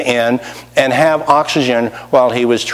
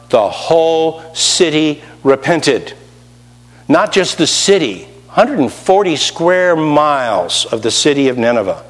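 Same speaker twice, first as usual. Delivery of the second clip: ordinary delivery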